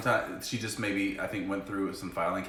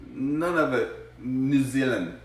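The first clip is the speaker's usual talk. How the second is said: playful teasing; 9 semitones higher, 5 dB louder, slower than usual. Real, not acted. Teasing spouse about her accent.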